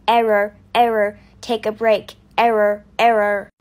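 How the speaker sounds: a machine stating errors; robot voice. Acted. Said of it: "Oh, stupid machine".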